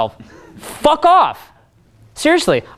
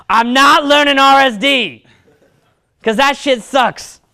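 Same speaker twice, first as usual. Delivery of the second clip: higher, whiny mock voice of a guy who hates talking; mocking a lazy student; 4 semitones higher than usual. Coach mocking a student who won't talk to girls, in a whiny higher voice. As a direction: sneer it out like a sulky loser begging for a shortcut. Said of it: "some guys will respond, they'll say".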